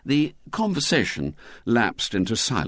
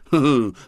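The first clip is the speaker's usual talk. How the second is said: brief hollow "hoo-hoo" laugh; 6 semitones higher, 6 dB louder than usual. A narrator's reading. Douglas dismissing Henry's second idea, hollow laugh. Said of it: "with another hollow laugh".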